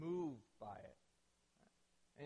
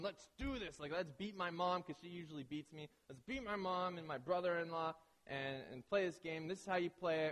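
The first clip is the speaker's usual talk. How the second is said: competitive hype. Retold or imitated. Competitive husband pumping up teammate.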